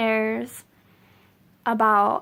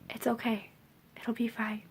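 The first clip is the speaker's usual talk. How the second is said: soft hushed reassurance; calm her down in a whisper; soothing whisper; 8 dB quieter than usual. Retold or imitated. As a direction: coworkers hushing her panic, whispered. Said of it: "And they're just like".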